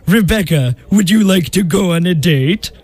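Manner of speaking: put-on French accent. Disguised suitor asking Rebecca out, French accent. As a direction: woo in a mock French accent. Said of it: "you had a French accent".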